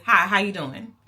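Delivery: "Hi, how you doing?" drawled with a rising lift; friendly Texan hello; Texan howdy-style "Hi, how you doing?"; Texas greeting. Shown as a demonstration.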